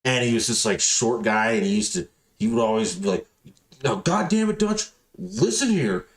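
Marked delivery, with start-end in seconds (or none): 3.8-6.1 high, strained rasp, mock scolding; raspy boss impression. Imitating a hard-drinking coworker scolding Dutch, high raspy voice. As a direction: imitate a stocky little guy rasping orders. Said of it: "short, real raspy voice".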